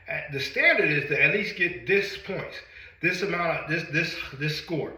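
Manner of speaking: huffing and puffing after a workout; out of breath. Real, not acted. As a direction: talk while catching your breath. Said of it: "so I'm huffing and puffing".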